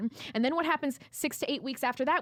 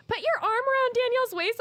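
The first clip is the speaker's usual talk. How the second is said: imitating photographer; 11 semitones higher than usual. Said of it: "when she's like".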